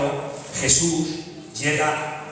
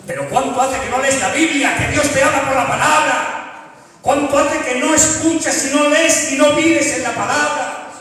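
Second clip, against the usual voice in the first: rising, louder preaching climb; impassioned preaching; 7 semitones higher, 6 dB louder than usual. Acted. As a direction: preach it with growing fire. Preaching builds to a shout.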